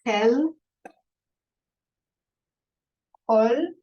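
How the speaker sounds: "Ab, vag" closed into one syllable, no vowel after the last letter; "vich", "tach" and "resh" said short and closed; one syllable each. Shown as a demonstration. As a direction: clip each word to a single syllable ending on the consonant. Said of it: "let's read this one more time".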